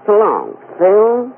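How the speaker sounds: slow, high, sultry-style Mae West drawl. Pretend. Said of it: "make believe it's Mae West".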